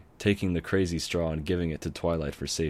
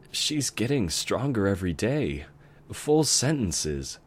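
affectionate; 4 semitones higher than usual. Acted. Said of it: "she said with affection".

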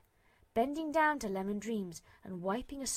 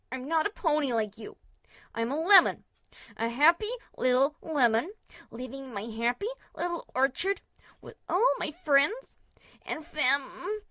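high, loud, shaky denial; trembling voice; 5 semitones higher, 9 dB louder than usual. A narrator's reading. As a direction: voice trembling with fear. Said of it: "Her voice trembled off into incoherence".

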